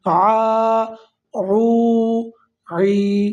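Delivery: آ او عی from the throat; ain sound. Shown as a demonstration. Teacher showing students the full ain sound. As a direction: voice the ain fully in آ او عی. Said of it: "مکمل عین کی آواز نکالیں گے".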